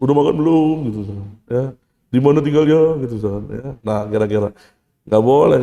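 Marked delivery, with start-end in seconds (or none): 0.0-0.8 mock trembling voice, slightly raised; put-on tremble. Imagining a young man faking a shaky voice, mock tremble. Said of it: "suaranya dibikin getar kayak gitu". 2.1-3.0 mock quavering small talk; put-on tremble. Imagining a young man faking a shaky voice, mock tremble. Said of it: "suaranya dibikin getar kayak gitu".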